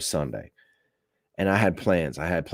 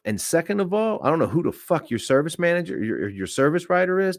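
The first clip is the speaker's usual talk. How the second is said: heated retort; 9 semitones higher than usual. Retold or imitated. Retold heated confrontation.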